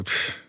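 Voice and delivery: short, soft "pfft" of dismissal; imitated scoffing puff of air; dismissive puff. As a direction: blow off the request with a quick puff. Retold dismissive noise to a request.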